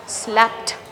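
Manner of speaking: Slapped ending in a T sound; unvoiced T ending. Shown as a demonstration. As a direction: say Slapped as "slapt". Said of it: "unvoiced. So this will sound T".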